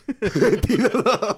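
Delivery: high, slow, drawn-out catchphrase imitation; mimicking catchphrase. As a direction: stretch it out high and loud. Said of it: "that's the only thing you can say".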